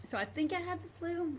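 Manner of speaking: choked up, voice suddenly high; high, tearful recollection; emotional. Real, not acted. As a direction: push on through real tears. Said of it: "I don't know why I'm so emotional".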